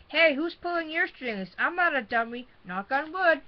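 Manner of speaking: high, jokey dummy voice; Grumpy dummy voice. Acted. Father voicing the dummy to tease, jokey. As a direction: crack a lame dummy joke. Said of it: "Dad made Grumpy say".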